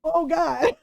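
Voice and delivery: mock moan of pain; pained groan. Cousin lying hurt on the sidewalk, groaning. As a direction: imitate someone hurt and winded. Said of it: "he's clutching his stomach and his arm".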